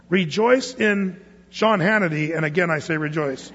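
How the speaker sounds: deadpan fake scripture to tease the crowd; mock misreading. Pastor jokingly misquotes the verse to the congregation, deadpan. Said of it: "No, oh, it doesn't say that".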